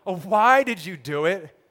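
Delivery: loud, acted groan of dismay. Sailors hear Jonah's confession, groaning at him. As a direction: groan it out in reproach. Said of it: "They groaned".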